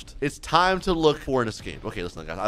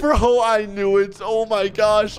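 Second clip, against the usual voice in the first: alarmed exclamation; 6 semitones higher, 3 dB louder than usual. Real, not acted. Trap closes on him.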